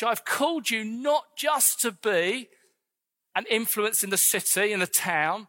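a hint of a solemn prophetic voice; voice of God. Preacher voicing God's call to King's Church, solemn. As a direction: speak it as God calling the church. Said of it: "God would say to you".

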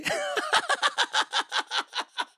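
real high-pitched cackle; laugh. Real, not acted. Comedian amused by the selfie request, high laugh. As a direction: crack up in a long, high laugh. Laughs at his own story.

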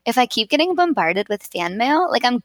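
lightly put-on bragging voice; mock self-importance, lightly hammed up; put-on stupid voice. Co-host playfully boasting about fan mail, mock bragging. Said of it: "I wish I talked like that".

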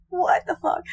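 stunned whisper; whispered disbelief. Acted. Speaker acts out baffled viewer, whispered disbelief. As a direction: whisper it, as if dumbfounded. Voices the viewer's bewildered reaction.

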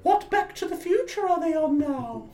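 very high, wailing ghost question; hammed-up spooky falsetto. Eighties ghost asking about films, high ghostly wail. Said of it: "Oh, I'm being the ghost".

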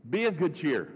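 a restrained yell across the water; mild retold yell. Jesus calls out to disciples on a boat, mild yell. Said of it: "Jesus yelled out to them".

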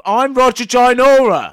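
slow, loud, high character voice. Pretend. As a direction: announce yourself as the character. Eli plays Roger character.

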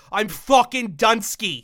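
slow, drawn-out mock Pittsburgh accent; imitating a friend's Pittsburgh accent. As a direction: stretch it out like a Pittsburgh local. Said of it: "in your Pittsburgh accent".

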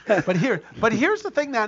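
barely keeping a straight face; laughing. Real, not acted. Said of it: "Can't say that with a straight face".

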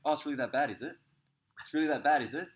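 high, loud sarcastic mimicry of the partner; mock her pitying you, hammed-up and high. Partner mocking his whinging in a loud, high sarcastic voice. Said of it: "And she was like".

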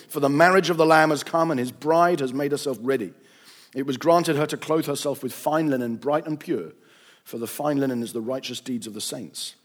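measured, dramatic Bible reading; formal reading that swells on the cries; scripture reading. A narrator's reading. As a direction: read scripture aloud with solemn weight. Reads scripture aloud to listeners.

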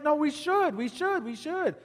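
calm lone voice of faith; the lone faithful guy. Retold or imitated. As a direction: quietly hold firm against the crowd. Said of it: "he's like".

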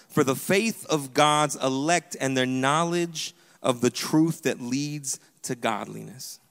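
measured Bible reading, phrase by phrase; slow, weighted public scripture reading; reading scripture aloud. Real, not acted. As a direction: read the verse out deliberately, with pauses. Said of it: "I'm gonna read it out loud".

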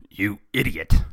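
loud villain's outburst; exasperated boss shouting; angry shout. A narrator's reading. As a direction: yell at a bungling henchman. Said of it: "Shredder shouted".

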